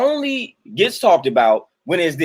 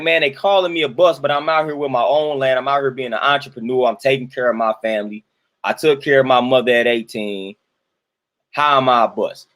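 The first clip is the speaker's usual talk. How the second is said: calm self-defense, settling lower; positive, measured reply; 4 semitones lower than usual. Acted. Imagining the insulted man answering critics without cursing, measured and positive. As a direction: answer the insult evenly, in a low register. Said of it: "something that's very positive".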